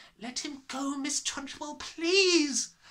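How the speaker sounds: begging tone, voice pitched way up high. A narrator voices Miss Honey, begging for a boy to be let go.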